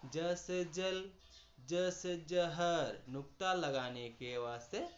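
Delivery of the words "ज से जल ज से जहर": जल then जहर, read slowly to set ज against ज़; contrast demo. Shown as a demonstration. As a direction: show the two ज sounds slowly. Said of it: "जैसे". (ज और ज़ का अंतर दिखाना)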